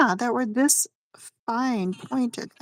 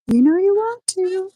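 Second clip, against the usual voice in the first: teasing; 10 semitones higher, 4 dB louder than usual. Pretend. Teasing encouragement.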